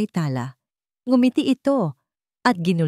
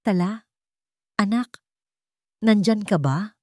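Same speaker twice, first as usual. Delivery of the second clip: mother calling out; 4 semitones higher than usual. A narrator's reading. Mother calls into the dark room.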